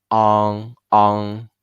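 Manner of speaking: on said open-mouthed and nasal; nasal ang. Shown as a demonstration. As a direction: open wide and let on ring in the nose. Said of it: "nasal sound, bigger mouth".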